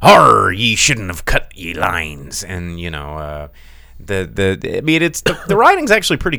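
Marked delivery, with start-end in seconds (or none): 0.0-2.4 slow, loud hammed-up pirate growl. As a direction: play a cartoon sea pirate, dragging it out. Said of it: "Yeah, doing pirate voices".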